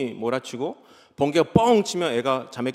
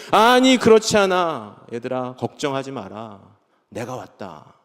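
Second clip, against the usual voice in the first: Jesus gently reassuring his frightened disciples; tender reassurance; 4 semitones lower than usual. Acted. Jesus comforting disciples, climax.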